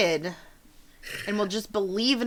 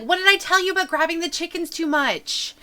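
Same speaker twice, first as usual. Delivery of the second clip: quick, higher scolding mom; scolding mother; 8 semitones higher, 3 dB louder, faster than usual. Acted. Mother scolding her son about the chickens, quick. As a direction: tell him off fast.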